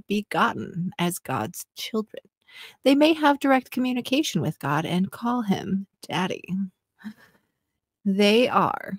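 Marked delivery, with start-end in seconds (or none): 2.8-8.9 seductive reading of scripture; sexy voice. Pretend. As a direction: read it like a come-on. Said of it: "in a sexy voice".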